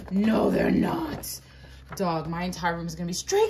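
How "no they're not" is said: delighted surprise. Real, not acted. Discovers posters differ.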